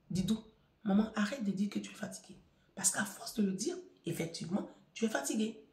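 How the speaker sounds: a hint of a gentle child scolding, softly; daughter's soft reproach. Daughter telling mother to stop complaining, softly. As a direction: mildly chide her mother, quietly. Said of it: "ma petite fille me dit".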